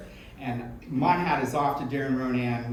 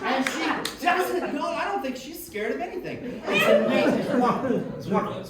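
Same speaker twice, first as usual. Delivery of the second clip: laughing; 11 semitones higher than usual. Real, not acted. Amused, laughing about her friend.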